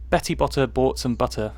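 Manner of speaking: posh British pronunciation of "Betty Botter"; careful posh accent on "Betty Botter bought some butter"; too posh. Real, not acted. Reading a tongue twister, way too posh British accent. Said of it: "I'm pronouncing it way too posh for me".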